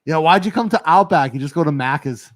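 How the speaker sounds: playful imitated Australian slang voice; Aussie Man. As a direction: tease in a put-on Aussie accent. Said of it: "Aussie Man with the Australian slang".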